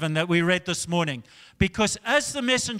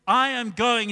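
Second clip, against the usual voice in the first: firm, raised retold anger; mildly angry declaration; angry king; 4 semitones higher, 4 dB louder than usual. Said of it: "he got so angry".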